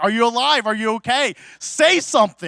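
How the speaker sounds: put-on urgent calling out. Retelling a roller coaster story, imitating yelling in a kid's face. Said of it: "yelling in his face".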